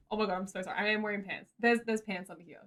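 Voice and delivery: embarrassed. Real, not acted. Embarrassed apology to chat.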